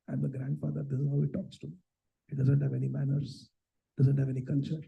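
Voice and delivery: soft, wounded inner voice; hurt muttering. Acted. Bhishma hurt by the boy's insult, speaking softly to himself. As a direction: say it under your breath, stung.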